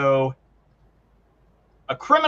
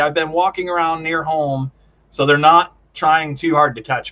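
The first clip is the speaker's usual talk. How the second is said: usual speaking voice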